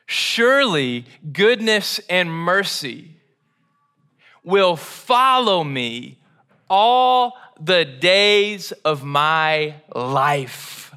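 slow, reverent reading of the verse, drawn out at the end; unhurried recitation of Psalm twenty-three; slow scripture reading. Shown as a demonstration. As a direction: read it slowly, like a sacred text. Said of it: "reading the psalm verse".

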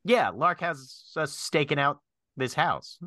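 lightly voiced bird lookout; hint of a talking bird reporting in; casual bird character voice; Drummond. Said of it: "and then Drummond's voice goes".

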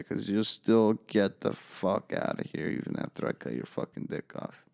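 threat trailing into a whisper; knife-wielding teen whispering a threat; menacing whisper. Retold or imitated. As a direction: hiss the threat close.

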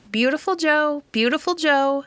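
high squawky parrot call; high parrot voice calling the dog's name. A narrator's reading. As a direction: chirp it like a talking parrot. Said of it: "She was saying".

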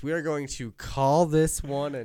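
announcer-like outro, slowing at the end; podcast sign-off. Real, not acted. Host thanks listeners and closes the episode, podcast sign-off. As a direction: wrap up the show, stretching the closing words.

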